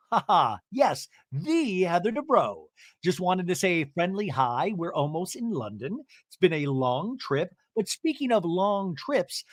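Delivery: sing-song, hammed-up cabin announcer; Heather's PA announcement. Heather addressing the plane over the PA, mock grand announcement. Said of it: "gets on the overhead P A system".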